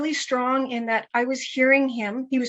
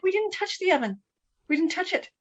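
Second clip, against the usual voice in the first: put-on kids protesting; 7 semitones higher, 3 dB quieter than usual. Kids denying, voiced higher.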